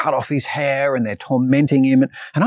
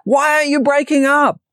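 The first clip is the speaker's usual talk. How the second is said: much higher, exaggerated disbelief; a hammed-up high squeak of disbelief at the kids; mock exasperated outburst; 12 semitones higher, 4 dB louder than usual. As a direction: play up the frustrated dad, pitched way up. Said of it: "And I'm like".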